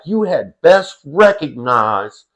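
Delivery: slow, stern mock threat voiced for a little boy; imitating a toddler's slow, fierce warning to an old man; ferocious toddler. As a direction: lay down the law slowly, imitating a furious kid. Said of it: "looking at this old man with such a ferocity".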